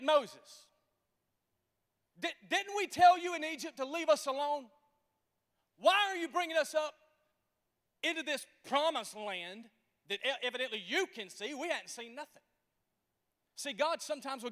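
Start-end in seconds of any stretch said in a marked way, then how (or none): 2.2-12.4 whining Israelites. Acted. Preacher voicing complaining Israelites.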